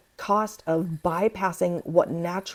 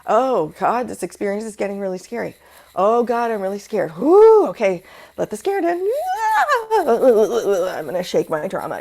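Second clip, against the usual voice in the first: riding the storm; 4 semitones higher, 4 dB louder than usual. Retold or imitated. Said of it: "So I'm just gonna lay there and go".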